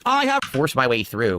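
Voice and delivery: slow, loud, grand declaration; dramatic proclamation. Acted. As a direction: boom it like an epic hero. Acted dramatic movie line.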